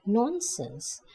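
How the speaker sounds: a brisk, dismissive protest. Acted. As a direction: brush the gloom aside briskly. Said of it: "Nancy protested briskly".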